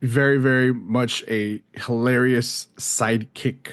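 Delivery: slow, drawn-out mock verdict; put-on announcer-like voice. Shown as a demonstration. Podcast guest rating Cousin Eddie, in a slow put-on voice. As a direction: lightly put on a silly voice, stretching the words. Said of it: "I don't know why I went into that, that voice".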